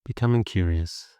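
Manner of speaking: even, unhurried meditation guidance with long pauses; steady meditation voice, little pitch movement; guided meditation. Acted. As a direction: guide listeners gently into the body and breath.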